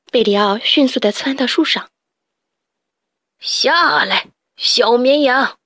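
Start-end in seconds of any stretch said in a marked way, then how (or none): 3.4-5.6 mock the little lamb; lightly voiced sly rat; taunting rat villain.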